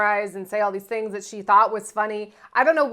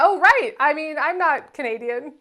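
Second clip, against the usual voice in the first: sheepish catch; 2 semitones higher, 4 dB louder than usual. Retold or imitated. Sheepish correction.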